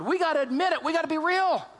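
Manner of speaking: high, insistent preaching push; urgent exhortation. Real, not acted. Preacher urging congregation to be real, high and insistent. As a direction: drive it home with rising urgency.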